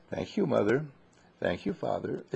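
soft, proper thank you to parents; a well-mannered child thanking parents softly; quiet, formal thank you; polite thanks. Shown as a demonstration. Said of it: "Be a lady and say".

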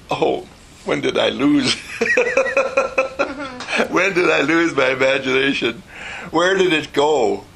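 mock crying. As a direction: wail it as a play-acted tearful lament. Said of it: "starts crying and says".

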